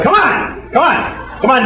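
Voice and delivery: high-pitched coaxing come on; yoga teacher. Retold or imitated. Yoga teacher chanting at strangers, high coaxing. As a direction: egg the class on like a peppy instructor.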